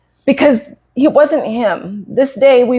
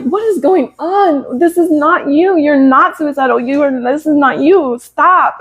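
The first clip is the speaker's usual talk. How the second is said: retold frightened plea; 5 semitones higher than usual. Pleading with husband during crisis.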